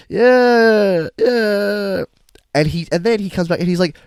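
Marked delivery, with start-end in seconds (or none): 0.1-2.0 reluctant yeah. Retold or imitated. Reluctant reply to Carl.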